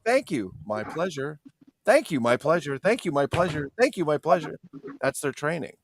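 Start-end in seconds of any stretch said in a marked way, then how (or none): 0.0-4.6 lightly mimicked customer-service refrain; drilled fast-food staff. Buttoned-up chicken restaurant staff thanking customers, lightly mimicked rote politeness. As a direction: repeat it by rote, like trained staff. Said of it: "and it's always like".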